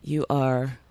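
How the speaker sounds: slow, soft whisper. Pretend. Guest telling whoever is listening off, whispering. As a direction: whisper it slowly, drawing the words out.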